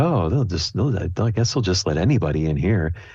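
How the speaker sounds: muttering very quietly. Voicing passing convention attendees making unpleasant comments, muttering very quietly. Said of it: "you hear some voices muttering, like, very quietly".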